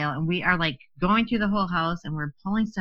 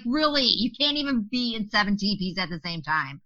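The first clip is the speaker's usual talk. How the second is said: incredulous complaint; 2 semitones higher than usual. Retold or imitated. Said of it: "and just pissed".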